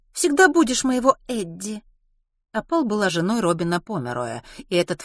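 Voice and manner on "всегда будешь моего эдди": put-on high-pitched, complaining young mother; plaintive whine. Opal complains of Kitty's yelling, plaintive and high. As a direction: whine the reproach. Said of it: "жалобно проговорила Опал".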